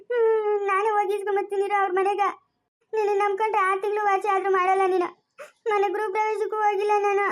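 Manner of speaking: whiny sobbing complaint, pitched a bit up; crying. Acted. Wife sobbing to husband over missed feast, crying. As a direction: sulk and cry through the words. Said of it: "ಅಳ್ಬೇಡ, ಯಾಕೆ ಅಳ್ತಾ ಇದ್ಯಾ?".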